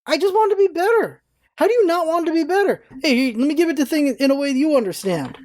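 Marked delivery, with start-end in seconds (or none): 0.1-2.4 high, indignant comeback; retorting to people telling him to get out, high and indignant; heated retort. Retold or imitated. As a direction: fire back at the critics, pitched way up. Retorting to critics of complaints.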